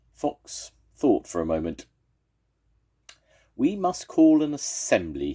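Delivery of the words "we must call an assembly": higher and louder, firm; decisive fox. Acted. Fox telling the animals his plan, firm. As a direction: announce the decision with authority. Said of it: "he said at last".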